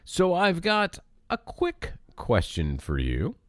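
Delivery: lightly hammed game show host; quiz host. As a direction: read the question like a quizmaster. Reads out trivia question.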